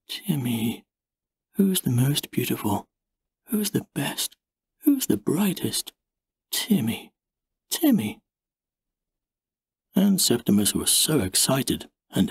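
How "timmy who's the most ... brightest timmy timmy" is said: tender purring. A narrator's reading. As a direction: croon to the puppy with a touch of softness. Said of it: "And she purred".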